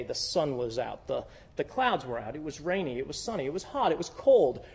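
a self-justifying grumble; mock excuse-making. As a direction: mumble excuses for yourself. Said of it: "we're saying".

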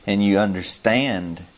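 halting, stumbling over words; stammer, restarting the phrase; stuttering. Real, not acted. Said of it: "See, I'm stuttering around".

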